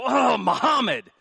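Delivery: high, slow, loud hammed-up shout; mock angry curse. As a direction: yell it like a furious coworker. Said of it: "You've never seen anybody go".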